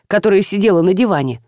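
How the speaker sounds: ordinary delivery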